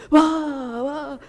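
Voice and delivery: playful fake anger for the kids to copy; mock angry wah. Shown as a demonstration. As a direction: demonstrate the angry shout for the class. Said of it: "do that with me".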